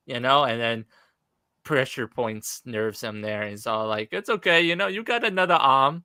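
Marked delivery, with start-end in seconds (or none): 4.1-6.0 higher-pitched mock reassurance with a taunt; lightly voiced taunting villain; Bane. Villain taunting his wounded opponent, lightly acted mock reassurance. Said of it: "Bane's just all, like, taunting him".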